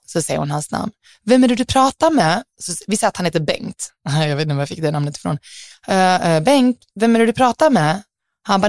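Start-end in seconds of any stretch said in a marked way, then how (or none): 1.2-8.0 put-on suspicious girlfriend. Flickvännen i bakgrunden frågar.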